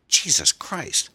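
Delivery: high, loud, drawn-out cry of pain; pained wail. A narrator's reading. Victim reeling from a blow to the jaw, wailing in pain. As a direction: wail it out slowly at high pitch. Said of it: "he wailed".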